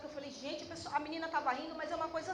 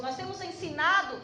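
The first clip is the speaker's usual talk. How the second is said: raised, emphatic sermon voice; impassioned preaching; 4 semitones higher, 7 dB louder than usual. Real, not acted. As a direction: preach it with rising conviction.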